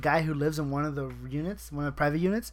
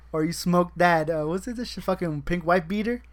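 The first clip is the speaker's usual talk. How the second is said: slow, building mock stoner questions; mock coworker; 7 dB louder than usual. Coworkers pestering him about weed, slowly building mock voice. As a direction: drag out each question, rising to a loud peak. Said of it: "all my coworkers will be like".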